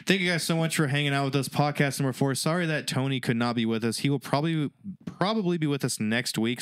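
slightly tipsy, loose delivery. Real, not acted. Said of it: "I'm also pretty tipsy".

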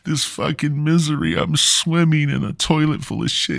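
high-pitched, hammed-up begging; comic high wail of misery; mock desperate pleading. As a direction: beg for rescue like a tiny drowning victim. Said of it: "they're gasping for air and they're just like".

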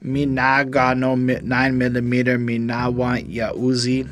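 a light attempt at a Jamaican accent; weak Jamaican accent. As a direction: Jamaican accent barely held. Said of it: "I can't really do the accent at all".

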